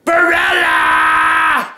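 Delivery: very low, slow rising howl; low drawn-out call. Acted. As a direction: drag the name out low and rising.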